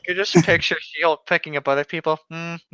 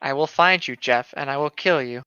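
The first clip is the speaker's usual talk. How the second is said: Liam Neeson impression. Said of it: "Okay, Liam Neeson".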